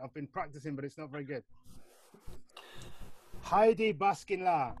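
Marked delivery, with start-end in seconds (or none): 3.4-4.7 slow, careful learner's Turkish, Haydi Baskinla; Turkish phrase. Shown as a demonstration. Host tries his Turkish on a Turkish guest, slow and careful. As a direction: sound out Haydi Baskinla word by word like a beginner. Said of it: "excuse my Turkish accent".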